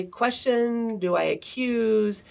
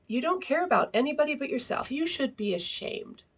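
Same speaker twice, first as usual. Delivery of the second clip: reproachful blaming, a bit higher; accusing; 5 semitones higher than usual. Shown as a demonstration. Parent accusing a selfish child, reproachful. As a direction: shame the child. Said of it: "through accusations".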